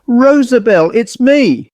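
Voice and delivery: high-pitched, eager call; crying out. A narrator's reading. Miss Harper calls to her doll Rosabelle, crying out high. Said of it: "Miss Harper cried out".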